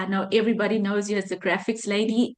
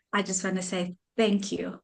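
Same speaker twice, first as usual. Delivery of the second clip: choked up; 3 semitones lower, 5 dB quieter than usual. Real, not acted. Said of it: "why am I getting emotional".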